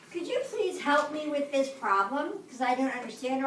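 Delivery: gentle, polite ask for help; polite classroom request. Shown as a demonstration. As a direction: ask nicely, calmly. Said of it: "My tone, same words, different tone of voice".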